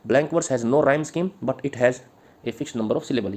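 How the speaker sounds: slow, measured dictation pace, each word spaced; slow dictation to the class. Acted. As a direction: read it out slowly so students can write. Dictating answer lines.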